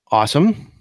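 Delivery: ordinary delivery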